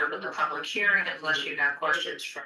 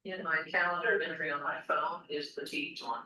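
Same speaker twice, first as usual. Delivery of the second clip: phone speaker. Real, not acted. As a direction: voice over a speakerphone. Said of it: "you're on speaker".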